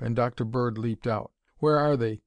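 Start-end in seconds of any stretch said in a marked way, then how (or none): 1.6-2.2 a mild eager demand, a touch higher. Acted. Doctor leaping from the car to ask Bolton, eager. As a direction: press for an answer, keenly. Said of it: "demanded the doctor eagerly".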